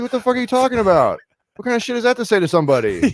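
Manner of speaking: high, loud, outraged disbelief; outraged shout at the psychic; outraged retort. Retold or imitated. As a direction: yell it back in shock. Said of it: "I was like".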